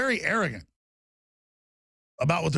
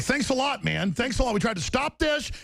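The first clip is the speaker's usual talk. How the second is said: sarcastic rant; 6 semitones higher than usual. Retold or imitated. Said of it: "It's like".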